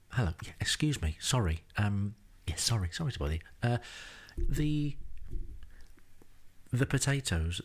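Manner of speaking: hesitant, over-apologetic complaint, full of pauses; apologetic English politeness. Retold or imitated. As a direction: mildly mimic yourself timidly complaining to a waiter. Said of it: "in such an English fashion".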